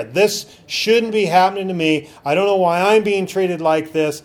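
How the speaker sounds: imitating a complaining believer; mock whining complaint. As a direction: whine it like a sulking grumbler. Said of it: "That's grumbling and complaining".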